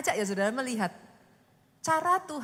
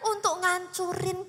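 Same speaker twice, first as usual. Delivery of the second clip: loud, slow, rising proclamation; forceful preaching; 7 semitones higher, 7 dB louder, slower than usual. Real, not acted. Preacher rebukes the congregation, loud and slow. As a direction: drive the point home with full force.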